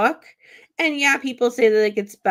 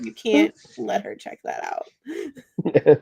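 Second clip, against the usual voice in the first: slow, firm warning to the librarian; stern parent; slower than usual. Retold or imitated. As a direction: lay down the rule slowly. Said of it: "I would have called the library and said".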